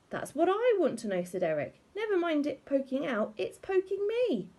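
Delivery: high, strained complaint; pained high whine. A narrator's reading. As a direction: whine it out in discomfort. Husband in pain complaining.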